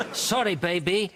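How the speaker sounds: high, hammed-up sorry baby, laughing; the detective apologising to her; mock Spanish tenderness. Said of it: "he said".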